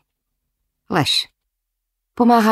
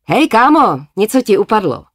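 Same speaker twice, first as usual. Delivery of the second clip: zavolání; 5 semitones higher, 4 dB louder than usual. Acted. Bratr volá na J J.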